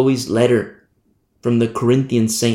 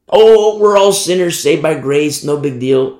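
mocking excuse; 4 dB louder than usual. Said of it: "No, he doesn't say that".

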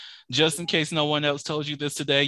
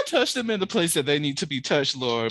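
repeating a prayer while laughing; laughing mock prayer. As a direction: giggle through a mock prayer.

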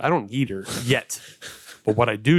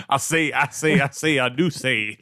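a mild blustery Southern rooster voice, lightly done; Southern gentleman drawl. Acted. Riffing on James Carville, a mild mock Southern drawl. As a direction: lightly ham up a pompous Southern orator. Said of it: "Oh, here we go".

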